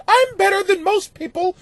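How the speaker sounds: mock posh, lifted voice for the letter; snooty letter-writer. Podcast host mocking a listener's fancy letter, snootily. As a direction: read it like you have your pinky out. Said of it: "you wrote this with your pinky out".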